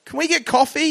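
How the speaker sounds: very high, anxious comic request; acted desperate plea. Frightened client asking his lawyer to leave the high floor, high nervous plea. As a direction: squeak out the request as if panicking.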